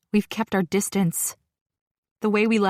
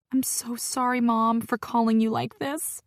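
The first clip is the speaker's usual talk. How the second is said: crying; 4 semitones higher than usual. Acted. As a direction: apologise through tears. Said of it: "I cry into the phone".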